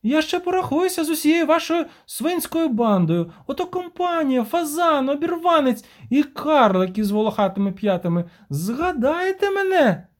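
very high, furious woman hurling insults, slowing at the end; enraged market woman. Acted. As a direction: shriek threats at the whole gang. Vespula ranting.

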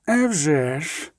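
slow, drawn-out modest reply; understated, humble confirmation; modest admission. A narrator's reading. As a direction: own up modestly, stretching it out. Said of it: "скромно признався Еміль Регіс".

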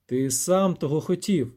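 slow, cold and final; detached slow verdict; coldly. Acted. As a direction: cut him off without feeling. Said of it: "холодно відказав ельф".

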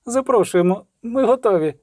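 high, playful sing-song call; playful teasing call. A narrator's reading. Margarita teases the officer from the bath, playful high call. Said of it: "стримуючи сміх".

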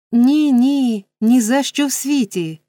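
high, emphatic protest; agitated refusal. A narrator's reading. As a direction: refuse with loud, fussy alarm. Distressed lady refuses the wine.

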